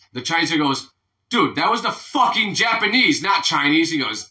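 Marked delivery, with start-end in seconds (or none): 1.3-3.9 higher-pitched mock protest; acted indignation. Chinese guy in a joke corrects his attacker, mock indignant. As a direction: object in exasperation, lightly hammed-up. Punched man objects in joke.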